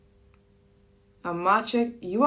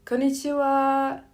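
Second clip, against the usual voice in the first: demo Japanese order; 7 semitones higher than usual. Shown as a demonstration. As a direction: sweetly order in Japanese at the counter. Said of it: "you could say".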